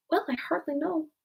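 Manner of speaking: little high-pitched squeak; small flustered creature, high and squeaky; feeble squeaky voice. A narrator's reading. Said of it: "little feeble, squeaking voice".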